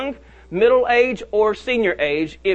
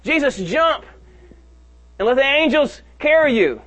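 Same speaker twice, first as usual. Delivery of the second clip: higher, coaxing tempter; lightly voiced devil, pitched up and coaxing; tempter's voice; 4 semitones higher than usual. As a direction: tempt him like the devil would.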